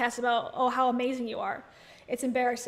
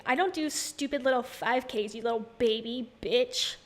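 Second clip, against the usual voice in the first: sass it like a pretend tough girl; mock diva; slower than usual. Imagining cohost telling off boyfriend, mock sassy. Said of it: "And she's like".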